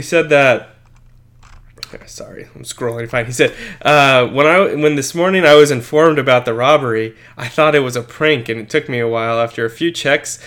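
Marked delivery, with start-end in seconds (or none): 4.3-10.4 put-on reading a quote in a mild Italian accent; lightly Italian-accented quote. Cohost reads artist's quote in an Italian accent. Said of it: "you have to imagine that in an Italian accent".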